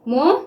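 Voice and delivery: "मोडेस्ट" with a long gap after "मो"; syllable by syllable. Shown as a demonstration. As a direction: dictate "मोडेस्ट" as "मो", pause, "डेस्ट". Sounds out word while writing.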